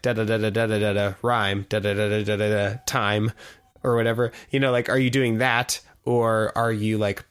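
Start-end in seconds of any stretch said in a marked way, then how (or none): 0.0-3.3 flat even da da da beats with the rhyme on the last; a singsong mock couplet, every syllable the same weight; plodding couplet rhythm. Shown as a demonstration. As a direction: tap out a stiff, forced rhyme rhythm. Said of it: "couplets, like".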